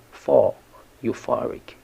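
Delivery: "for" punched alone, then euphoric stressed on "for"; stress on second syllable. Shown as a demonstration. Teacher showing learners where euphoric is stressed, stress on "for". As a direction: hit "for" in euphoric. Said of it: "The stress is on the second syllable".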